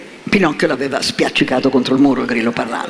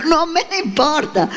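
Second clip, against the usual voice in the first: defiant puppet; 11 semitones higher than usual. A narrator's reading. Puppet defies fairy.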